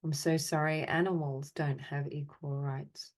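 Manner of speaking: measured phrases with long silences between; guided apology meditation. Acted. Meditation leader offering apologies for the world's imbalance, measured and solemn. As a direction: recite each apology evenly, leaving space to feel.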